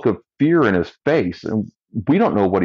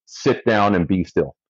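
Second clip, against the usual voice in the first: deadpan. Retold or imitated. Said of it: "my lieutenant deadpan looks the guy in the eyes and says".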